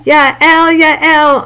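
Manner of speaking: a proud uncle's glad calling; calling out joyfully. Acted. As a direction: call her name with delight. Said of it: "Uncle cried".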